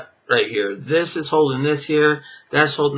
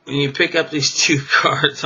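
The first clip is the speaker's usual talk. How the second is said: laughing. Real, not acted. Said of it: "I'm laughing because".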